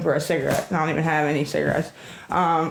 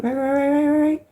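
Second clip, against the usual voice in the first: sarcastic rapid agreement; 8 semitones higher than usual. Real, not acted. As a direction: pile on the sarcastic rights, climbing.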